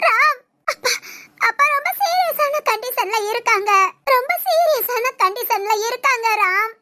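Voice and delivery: tearful urgent plea; crying. Acted. Daughter telling Ram his father is critical, crying. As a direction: sob out the bad news. Crying about serious condition.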